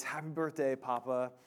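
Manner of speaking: softly imitating a timid child; a hint of a shy small boy; shy little son. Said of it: "in his kinda shy, timid voice".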